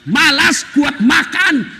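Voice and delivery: a laughing, hammed-up rant at the husband; istri memaki. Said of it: "tidak boleh maki-maki". (istri mengomel sambil tertawa)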